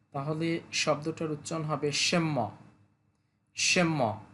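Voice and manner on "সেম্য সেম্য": "সেম্য" with the n turned into a held m; n sounded as m. Shown as a demonstration. Teacher explaining the n sound, model "সেম্য" with an m. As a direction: say "সেম্য" as shem-mo, humming the double m. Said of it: "এনের সাউন্ডটাও এম এর মতো হয়".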